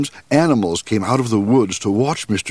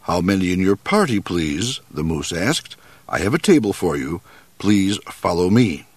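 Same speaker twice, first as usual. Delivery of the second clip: brisk moose waiter; 2 semitones lower than usual. Acted. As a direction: rattle it off like a busy headwaiter.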